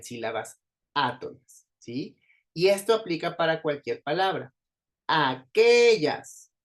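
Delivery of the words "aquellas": Aquellas very slow, middle QUE loud and high; stress on QUE. Shown as a demonstration. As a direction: stretch and punch QUE in Aquellas. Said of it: "Suena más fuerte la sílaba de en medio". (Aquellas muy lento, con la QUE fuerte y aguda)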